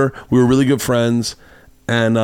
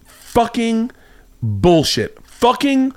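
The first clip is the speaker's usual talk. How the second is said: really angry, retold; 11 semitones higher, much slower than usual. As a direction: imitate her fuming in drawn-out curses. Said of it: "like, really angry".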